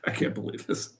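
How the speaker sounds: whispered disbelief repeated; exasperated whisper. Retold or imitated. Coach muttering his disbelief again under his breath. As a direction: breathe it out, defeated. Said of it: "he just went".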